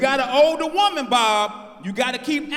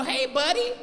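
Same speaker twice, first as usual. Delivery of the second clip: higher-pitched mock white man; put-on white-people voice; comedian's white-guy voice; 4 semitones higher than usual. Shown as a demonstration. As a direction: lift it into a caricature white-guy greeting. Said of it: "that's the voice every black comedian use for white people".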